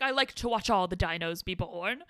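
attempted Scottish accent; amateur Scottish imitation. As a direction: put on a playful Scottish accent. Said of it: "That was my Scottish accent".

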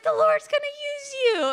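overcome, cracking declaration. Real, not acted. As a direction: push through the crack in the voice. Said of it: "my voice still cracks".

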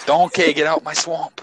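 hammed-up slow Shrek-style Scottish accent; playful Scottish ogre accent. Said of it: "do a Shrek accent".

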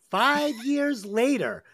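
starts the line, giggles mid-phrase, slowed down; reading aloud while laughing. Real, not acted. Reading summary, breaks into laughter.

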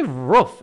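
first "roof" said as "ruff"; short vowel in "roof", as in "book"; American pronunciation. Retold or imitated. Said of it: "they say roof instead of roof".

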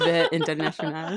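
thick New Jersey accent on the name. Shown as a demonstration. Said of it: "very thick Jersey accent you just gave us".

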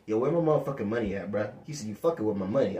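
low, rapid money demand in a pimp's voice; lightly voiced drug dealer, low and quick; imitated pimp talk. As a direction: quote a man demanding his cash, low and hurried. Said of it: "You sound like a pimp".

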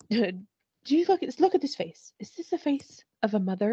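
high, slurry tipsy woman asking indignantly; playing a drunk woman demanding an answer; drunk mock indignation. Recapping the show, podcaster imitates drunk Elise at the bar, high and indignant.

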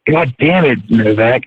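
usual speaking voice

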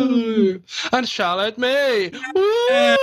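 high ghostly wail; haunting voice. Pretend. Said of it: "Why do we sound like we're haunting someone".

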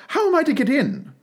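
high, pleading little voice; pleading question. A narrator's reading. Alice asks the footman for help, pleading. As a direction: ask it high and imploring.

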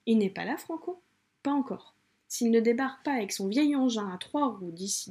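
reading a novel aloud to viewers, lightly acted; story reading. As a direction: narrate the excerpt with a little color. Reads a novel excerpt aloud.

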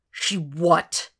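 understated threat in a rising question; dangerous. A narrator's reading. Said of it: "Will knew he sounded dangerous".

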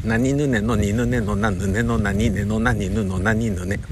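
slow, heavy na-row drill; slow articulation drill. Shown as a demonstration. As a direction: drill the syllables slowly. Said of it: "うわ、遅い".

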